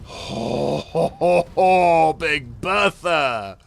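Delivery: loud, stretched cheer; Big Bertha drawn out, loud; excited yell. Real, not acted. Tank in danger, cheering.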